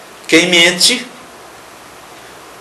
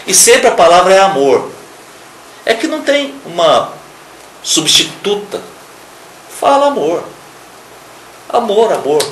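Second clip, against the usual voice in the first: much higher, ringing out "amor"; fervent preaching; 7 semitones higher, 3 dB louder than usual. Acted. Preacher exalting the word love to the church, fervent cry.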